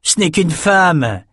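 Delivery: thug sneering at a woman, slowly; scornful shout. A narrator's reading. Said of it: "cria le type au bras court".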